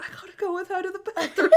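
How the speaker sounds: high, hammed-up British protest; mock a put-upon British man, laughter breaking in; lightly British, high-pitched retold complaint. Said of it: "he's British or whatever".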